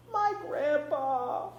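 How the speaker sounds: put-on high, slow toddler voice; little boy voice. A narrator's reading. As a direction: speak like a small lost child. Narrated toddler voice.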